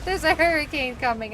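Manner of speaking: high, loud imitation of the caller; hammed-up announcement. Caller reveals hurricane to agent, hammed-up announcement.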